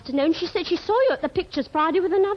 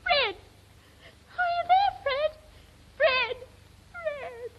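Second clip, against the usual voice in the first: calling out; 12 semitones higher, much slower than usual. Acted. Call cut off, calling out.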